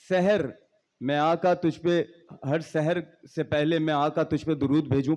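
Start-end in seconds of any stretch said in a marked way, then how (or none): 0.1-0.5 सहर with a short "e" first, seh-har; sehr, magic. Shown as a demonstration. Speaker showing students the word for magic, seher. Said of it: "सहर का मतलब जादू".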